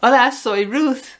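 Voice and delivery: bright rising "hola, hola" as if answering a call; cheery phone greeting. Shown as a demonstration. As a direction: greet a friend on the phone warmly. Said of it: "Pero decimos".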